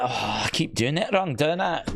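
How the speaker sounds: a light hint of a Scottish accent; a self-mocking question in a faint Scottish lilt. The bride getting her pointing wrong, in a faint Scottish accent. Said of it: "That's Scottish, by the way".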